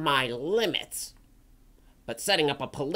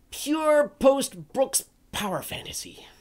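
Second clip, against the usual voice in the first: scornful whisper; 11 semitones higher than usual. Acted. Forum critic whispering his scorn for the story. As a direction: whisper the verdict with contempt.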